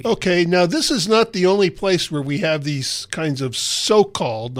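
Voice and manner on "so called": so-called drawn out slowly for emphasis; stress on so-called. Real, not acted. Host qualifies Bible discrepancies, so-called slowly emphasized. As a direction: dwell on "so-called", stretching both words. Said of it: "I'll emphasize the word so-called".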